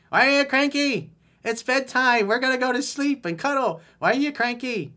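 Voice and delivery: put-on high, loud baby-talk teasing; babying tease. Boyfriend teasing his cranky girlfriend at bedtime, in high baby talk. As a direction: coo at her like she's a grumpy baby.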